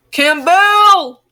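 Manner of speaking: loud, high, thrilled cry of the name Campbell; excited outburst. Real, not acted. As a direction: blurt out Campbell in sheer delight. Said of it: "I got really excited over Campbell".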